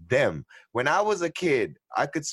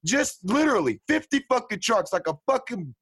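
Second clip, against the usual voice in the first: slow emphatic rant; 8 semitones higher than usual. Real, not acted. Ranting about hunters.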